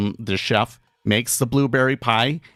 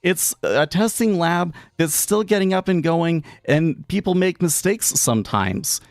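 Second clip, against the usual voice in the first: exasperated retort; 8 semitones higher than usual. Retold or imitated. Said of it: "And I'm just like".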